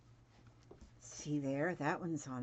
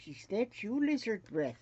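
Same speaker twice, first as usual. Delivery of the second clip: higher, louder teasing big-brother voice; imitating her teasing brother; 7 semitones higher, 6 dB louder than usual. Brother greeting her by her old nickname, higher and louder teasing. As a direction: needle her like a cheeky brother. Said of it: "And he goes".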